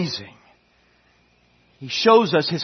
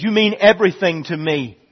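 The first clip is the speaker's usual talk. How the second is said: God pleading; 4 semitones higher, 5 dB louder than usual. Acted. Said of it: "God says".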